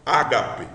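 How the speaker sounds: "ágape" said slowly, stress on GA; teacher's model pronunciation. Shown as a demonstration. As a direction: model "ágape" clearly for students. (pronúncia modelo de "ágape", tônica no GA)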